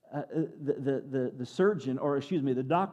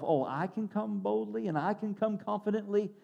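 raised pitch, tentative and doubtful; insecure questioning; 4 semitones higher, 3 dB quieter than usual. Acted. Believer pointing the finger at himself, acted insecure disbelief. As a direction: ask it as if you barely believe it. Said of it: "these waves of insecurity start to come".

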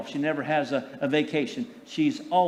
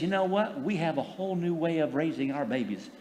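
put-on young mom dismissive; 2 semitones lower, 5 dB quieter than usual. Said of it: "the younger generation says".

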